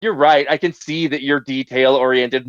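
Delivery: drawn-out, condescending mock concession. AI answering back to a corrected user, condescending. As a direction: patronize them with a slow "oh". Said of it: "like, with a condescending".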